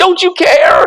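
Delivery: frightened high cry. Voicing the frightened apostles' cry from the reading, in a terrified raised voice. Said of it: "fear and terror in their raised voices".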